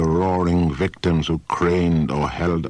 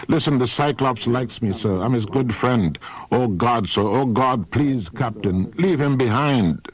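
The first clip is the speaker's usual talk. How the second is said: higher-pitched, mildly panicked plea; urgent pleading; 5 semitones higher than usual. Acted. Sailor begs Captain Odysseus, urgent pleading.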